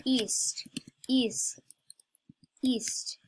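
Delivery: whispering. Real, not acted. Whispered word.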